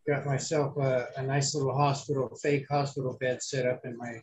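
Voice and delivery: rough, scratchy post-surgery voice; gravelly voice. Real, not acted. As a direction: speak with a raspy, hoarse throat. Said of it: "you sound a little gravelly".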